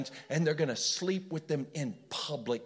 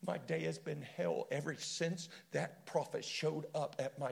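imagined lament; 4 dB quieter than usual. Retold or imitated. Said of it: "You can almost hear him going".

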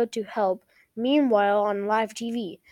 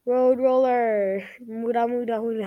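mild yell. A narrator's reading. Kermit attacking Godzilla with a road roller, mild yell. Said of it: "Kermit yells".

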